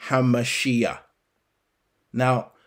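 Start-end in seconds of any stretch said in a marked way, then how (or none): 0.1-1.0 Hamashiach said deliberately, ending in an audible "ee-yah"; Hebrew pronunciation. Shown as a demonstration. Preacher showing Yah's name in the Hebrew title, Hamashiach pronounced "ha-ma-SHEE-yah". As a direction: sound out Hamashiach so "Yah" is heard at the end. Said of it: "Yah's name in the Hebrew pronunciation".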